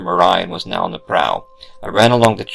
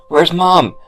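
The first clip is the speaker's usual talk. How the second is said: insistent demand; 10 semitones higher, 5 dB louder than usual. Acted. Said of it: "with more conviction".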